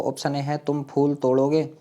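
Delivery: ordinary talk, nothing marked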